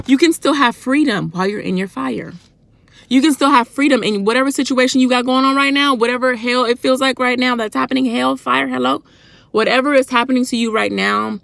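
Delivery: car sermon, calling out to viewers with fervour; preaching. Real, not acted. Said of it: "I think I yelled throughout".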